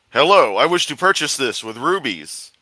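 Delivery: lightly put-on hodgepodge merchant accent; man who barters. Gamer voicing a buyer at a shop, mock accent. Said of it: "I just went into man who barters".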